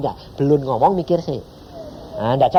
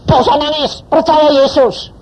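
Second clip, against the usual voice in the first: firm comfort; 11 semitones higher, 7 dB louder than usual. Retold or imitated. Preacher voices his prophetic words.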